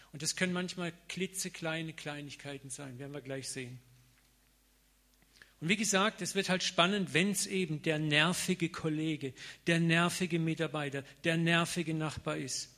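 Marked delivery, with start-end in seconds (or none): 5.6-12.7 louder, slowed preaching on the annoying ones. Real, not acted. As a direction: lean into nervige with a louder voice. Preaching emphasis on annoying people. (lauter predigend, nervige betont)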